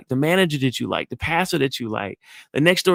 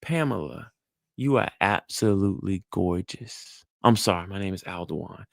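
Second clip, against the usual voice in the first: flirting compliment; 6 semitones lower, 5 dB quieter than usual. Shown as a demonstration. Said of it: "Y'all see what I'm doing?".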